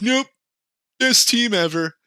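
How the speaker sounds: high, cocky machine boast; smug AI voice. Retold or imitated. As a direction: brag like a know-it-all machine. AI voiced again.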